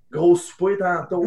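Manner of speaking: slow, sly pickup line; a hint of a would-be charmer; cheeky line. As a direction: drop the line slowly like a smooth flirt. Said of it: "une petite réplique".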